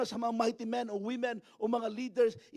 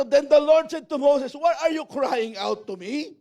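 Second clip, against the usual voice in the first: loud, raised-pitch reading; forceful scripture reading; 5 semitones higher, 8 dB louder than usual. Acted. Preacher reading God's question to Moses, loud proclamation. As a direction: read it out forcefully, slowing on the question.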